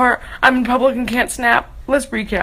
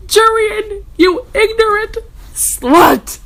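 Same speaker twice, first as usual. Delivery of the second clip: higher, louder mock outburst; mock insult; 9 semitones higher, 4 dB louder, slower than usual. Reader hurling a comic insult at Jurian, mock shouting. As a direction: drag out ignorant as a joke insult. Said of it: "ironic insult quote".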